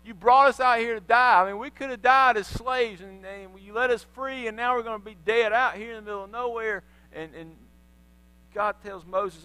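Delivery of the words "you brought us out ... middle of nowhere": louder, higher whining protest at the Lord; complaining Israelites. Acted. Israelites complaining to God in the desert, loud whine. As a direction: whine it like a crowd that wants to go back. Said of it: "They start complaining again".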